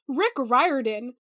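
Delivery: Riordan said "RYE-er-din"; author's own pronunciation. Retold or imitated. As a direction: slowly say Riordan to rhyme roughly with "fireman". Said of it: "It sort of rhymes with fireman".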